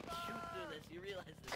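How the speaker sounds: high-pitched. Real, not acted. Complaining about bad cover.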